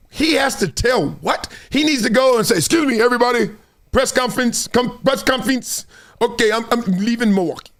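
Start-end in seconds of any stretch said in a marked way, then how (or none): 2.6-7.7 mock Greek-accented press announcement; hesitant imitation of a Greek accent; Giannis. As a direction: attempt a Greek accent, slightly raised. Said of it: "is that a Giannis accent?".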